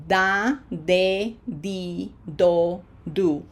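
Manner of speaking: "Da, de, di, do, do" evenly spaced, ending on doo; "Da, de, di, do, do" as dah, deh, dee, doh, doo; Spanish syllable drill. Shown as a demonstration. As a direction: read out "Da, de, di, do, do" with unchanging pure vowels. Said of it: "Read them out loud".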